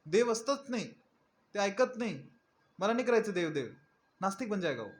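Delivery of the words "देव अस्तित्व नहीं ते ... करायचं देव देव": high, fed-up outburst of a disillusioned devotee; mock bitter rant, higher and exasperated; frustrated quitter. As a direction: throw up your hands in disgust. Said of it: "वो छोड़ देगा".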